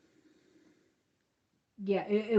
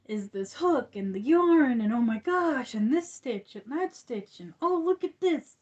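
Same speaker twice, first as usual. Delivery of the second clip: gushing about crochet; 4 semitones higher, 5 dB louder than usual. Retold or imitated. Mimicking her own crochet gushing.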